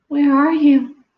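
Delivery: put-on a lost baby bat squeaking for mother; squeaky call. A narrator's reading. Baby bat calls for her mother, high squeak. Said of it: "Stella Luna squeaked".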